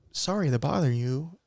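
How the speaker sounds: lightly imitated salesman with lilting pitch; a hint of a white guy's sales-call voice; white guy phone voice. Retelling a movie telemarketer's calls, white guy phone voice. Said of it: "he sound like a white guy on the phone".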